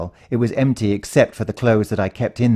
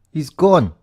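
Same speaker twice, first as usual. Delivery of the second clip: friend's grief; 7 semitones higher, 6 dB louder than usual. A narrator's reading. Grieving friend's news.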